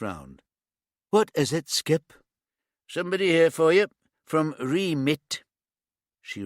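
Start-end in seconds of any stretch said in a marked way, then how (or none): 1.1-2.1 calling back. A narrator's reading. Boss calls back across tent. 2.9-5.4 calling across. A narrator's reading. Officer calls across tent to his boss, loud call.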